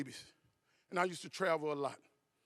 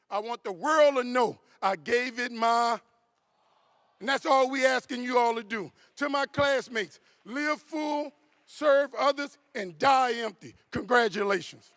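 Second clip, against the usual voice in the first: loud, raised preacher's charge, slow and drawn out; rousing climax; 4 semitones higher, 9 dB louder, slower than usual. Real, not acted. Speaker sending off graduating classmates, rousing climax. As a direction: build to a big, ringing send-off.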